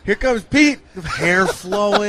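high, loud, playful excitement; hammed-up spotting of a late arrival; acted-out searching. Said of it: "I came in today and I'm like".

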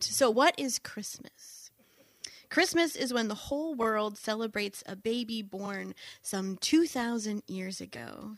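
radio evangelist voice. Shown as a demonstration. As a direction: preach it like a gentle radio evangelist. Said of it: "I'm gonna put my radio evangelist voice on".

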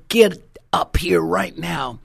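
slow, drawn-out mock command; stern grandpa order. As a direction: imitate an angry grandpa, each word weighted. Angry grandpa orders child up.

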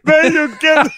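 high, slow, jealous whine. Retold or imitated. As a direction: sulk it out, drawn out and high. Voicing a jealous Erkan.

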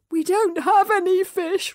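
slow, through gritted teeth; strained, teeth clenched. Acted. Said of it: "from between gritted teeth".

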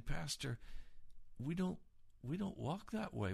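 a light mock of a doubter's protest; mock objection. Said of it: "some of you are saying".

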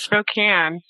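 "Spokane" said slowly as spo-CAN; correct pronunciation. Shown as a demonstration. Guest confirms the place name for host, correct pronunciation. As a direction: end "Spokane" with the vowel of "can". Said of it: "You got it right".

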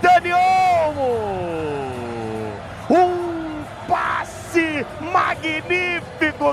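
slow stretched player name; drawn-out name call. Real, not acted. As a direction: savor the name. Naming scorer, drawn out. (chamada arrastada do nome)

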